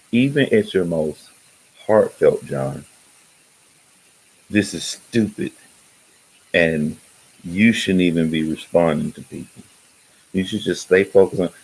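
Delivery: a light British lilt on the advice; a hint of the speaker's British reading; British accent retold. Friend reading his heartfelt posts back, a light British accent. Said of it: "in that British accent".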